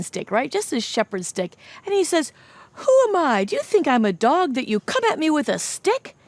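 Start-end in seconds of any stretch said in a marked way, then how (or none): 2.7-6.1 angry giant. Acted. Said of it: "Goliath was mad".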